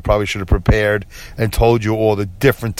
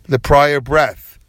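slow mocking emphasis; much slower than usual. Real, not acted. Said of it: "That's so dumb".

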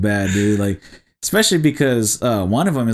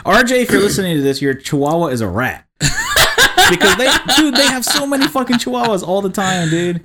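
laughing tease; 8 semitones higher than usual. Real, not acted. Teasing absent friend, laughing.

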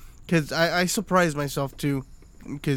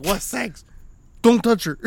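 put-on protective kid voice; 6 semitones higher, 6 dB louder than usual. Kid guarding mom, voiced.

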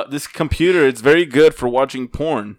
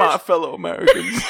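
presidential impression. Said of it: "You sounded like George".

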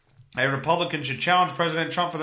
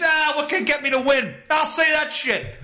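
mock Trump thought; 6 semitones higher than usual. Voicing Trump's thoughts, shouting.

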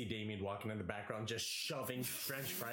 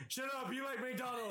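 mock snappy friend; 11 semitones higher than usual. Friend retold snapping at girl.

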